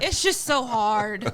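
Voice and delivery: slow, drawn-out mock child lament; sad little boy. Son confiding in mom in the car, drawn-out sad little-boy voice. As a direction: drag it out like a woeful kid. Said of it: "looking really sad".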